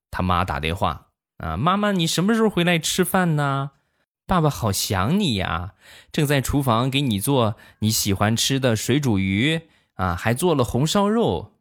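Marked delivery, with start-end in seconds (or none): 1.6-11.5 put-on high child's voice on the phone, sweet and coaxing; imitating small nephew. Nephew on the phone to his mom, sweet child voice. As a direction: play the little boy sweetly luring mom home.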